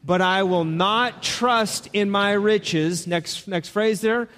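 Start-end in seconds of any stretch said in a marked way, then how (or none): 0.0-3.1 slow recitation. Shown as a demonstration. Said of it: "Read it with me".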